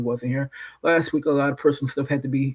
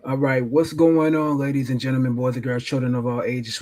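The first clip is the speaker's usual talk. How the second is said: grand entrance announcement. Acted. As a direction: greet the crowd like a ringmaster. Podcast host opening the show.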